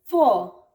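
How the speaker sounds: "फॉर" ending on a long aw, no r. Shown as a demonstration. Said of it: "फॉर नहीं".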